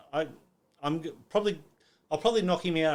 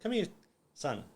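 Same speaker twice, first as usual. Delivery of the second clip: mild imitated yell, pitched up; calling out; 7 semitones higher than usual. Dad calling his son over at the show, mild yell. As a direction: call your son over without really shouting. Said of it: "I hear Dad yelling out".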